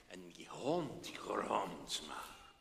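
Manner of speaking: whispered and slow; hushed. A narrator's reading. Narrator telling of the growling dog, whispered. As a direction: whisper it tensely.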